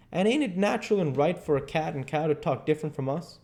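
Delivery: lightly voiced boy posing a question; Huck, quizzing. Huck presses Jim on cows and cats, quizzing. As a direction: pose it like a leading question.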